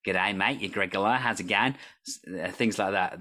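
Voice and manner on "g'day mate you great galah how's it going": so-so Australian impression; Australian accent. Shown as a demonstration. Host demonstrates an accent he can do better, rough Australian accent. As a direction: attempt a casual Australian greeting. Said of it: "not a good impression of Australian".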